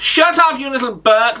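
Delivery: mock-exasperated host outburst; irritated cut-off. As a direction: shut the caller down abruptly. Host cuts off a ranting caller.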